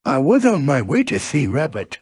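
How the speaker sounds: lightly voiced bouncy tiger; Tigger. Tiger greets his friend on a bouncing day, lightly voiced character. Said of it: "said Tigger".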